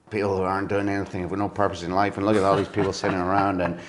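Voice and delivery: light imitation of a grumbling club owner; Fergus McCann impression. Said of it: "cracking Fergus McCann impression".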